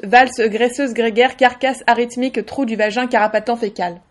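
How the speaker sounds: deadpan numbered catalogue reading; automatic list recital. Shown as a demonstration. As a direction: recite each item like an official list, pausing between entries. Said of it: "d'une manière un petit peu automatique".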